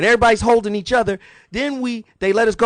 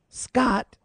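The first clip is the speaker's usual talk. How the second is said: hype guest intro. Acted. Host hypes guest introduction.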